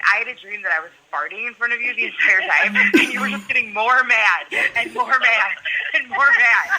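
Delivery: giggling through the line; can't keep a straight face retelling it; quoting him while laughing. Retold or imitated. Retelling his dream.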